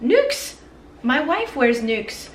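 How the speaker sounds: mock French chef, pleasantly surprised. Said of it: "maybe he's like".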